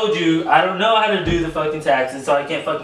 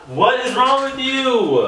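exasperated disbelief; 9 semitones higher, slower than usual. Real, not acted. Disbelief at being ignored.

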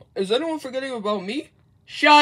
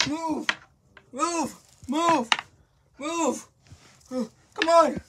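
urgent calling out; 4 semitones higher, 4 dB louder, slower than usual. Acted. Rushing everyone to the mail.

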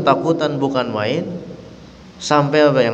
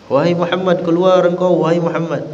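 higher-pitched mock call for Muhammad; 5 semitones higher than usual. Desert man calling for Muhammad at the mosque, mock yell. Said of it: "dia teriak-teriak".

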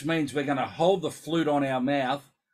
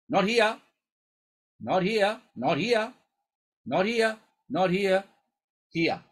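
emphatic pointing; 5 semitones higher, 4 dB louder, slower than usual. Shown as a demonstration. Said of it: "demonstrating head position".

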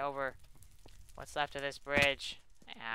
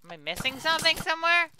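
exasperated disbelief; 11 semitones higher, 12 dB louder than usual. Real, not acted. Overwhelmed by enemies.

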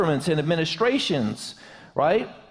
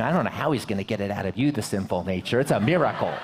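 dry jab at her husband; wife's teasing quote; 10 semitones lower, faster than usual. Retold or imitated. Preacher quoting his wife's dry joke. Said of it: "My wife said to me".

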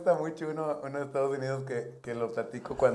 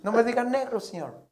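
offended bartender; 11 semitones higher than usual. Acted. Bartender objects.

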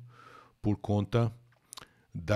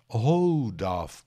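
"Hold off" louder, "hold" hit hard; hold off stressed; 4 dB louder than usual. Shown as a demonstration. Teacher highlights the phrasal verb, stressing "hold". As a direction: lean on "hold" in "Hold off". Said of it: "Bacana esse phrasal verb".

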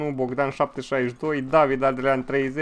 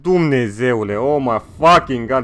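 excited; 6 dB louder, slower than usual. Real, not acted. Streamer reacting to big donation.

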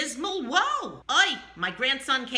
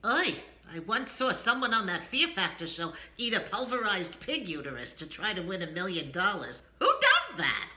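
revolted; 5 semitones lower, 5 dB quieter than usual. Shown as a demonstration.

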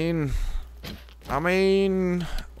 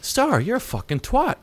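mock rude viewer; 11 semitones higher than usual. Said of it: "Or maybe you'll be like".

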